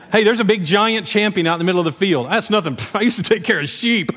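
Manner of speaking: amused pretend bragging with laughs breaking in; mock boast, laughing. David offering his shepherd resume to Saul, laughing mock boast. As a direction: play a naive boast through chuckles.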